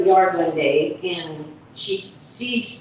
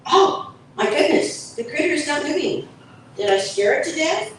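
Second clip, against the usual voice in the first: panicked cat; 7 semitones higher, faster than usual. Acted. Cat panics over critter.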